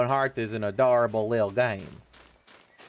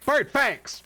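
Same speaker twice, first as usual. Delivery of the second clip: much higher cartoon squeak; high squeaky announcement; 12 semitones higher than usual. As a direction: squeak it out like a mascot.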